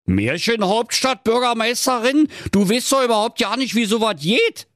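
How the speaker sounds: high astonished cry; amazed husband, voice shooting up. Acted. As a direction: echo it in disbelief, then rush on. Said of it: "rief der Baggerfahrer erstaunt".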